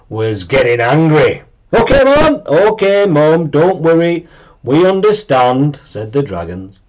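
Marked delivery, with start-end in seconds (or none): 1.7-5.8 calm her down quickly; hasty reassuring kids. A narrator's reading. Dragons soothing angry Mum, high and eager.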